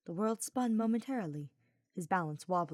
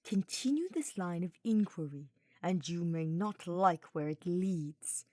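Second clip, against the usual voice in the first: low menacing hiss. Acted. Hubert warning Sylvain, slow, menacing interrogator's tone. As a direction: menace him like a prisoner under interrogation. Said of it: "Hubert hissed lowly in a tone he reserved for those he interrogated".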